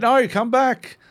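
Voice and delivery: high-pitched mock shout; mock call out. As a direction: call him back, hammed-up. Voicing mate calling out.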